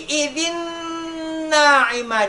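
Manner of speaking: "idzin na'imah" with the n held long; merged, held ghunnah. Shown as a demonstration. Teacher isolating the example for pupils, "idzin na'imah" with a held nasal n. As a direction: hum the joined n in "idzin na'imah". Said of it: "Dileburkan dan ditahan dua harokat".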